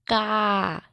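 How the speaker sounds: का with the mouth wide open and the vowel drawn long; long open kaa. Shown as a demonstration. Teacher showing children the long aa sound in का. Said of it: "मुंह हमारा बहुत ज़्यादा ही खुल रहा है और इसकी ध्वनि जो है लंबी".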